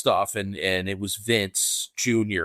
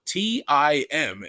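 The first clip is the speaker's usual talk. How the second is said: slow spelling; 5 semitones higher, much slower than usual. Retold or imitated. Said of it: "I was like".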